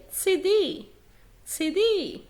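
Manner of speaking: سي دي as "tsee-DEE"; slow سي دي starting with a TS sound. Shown as a demonstration. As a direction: begin سي دي on a crisp "ts". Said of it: "هو تس".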